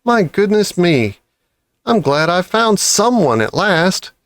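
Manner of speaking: high, quick, relieved babble; thrilled to find company; excited badger.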